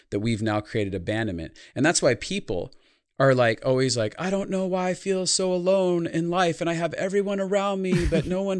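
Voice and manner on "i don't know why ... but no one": high put-on voice of a lonely person; high, mock-plaintive imitation; whiny lonely person. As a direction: mimic someone complaining they feel alone. Mocking people who feel alone.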